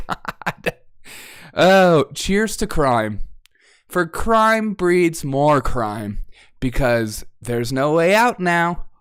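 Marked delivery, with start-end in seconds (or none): 1.5-8.9 sarcastic toast. Pretend.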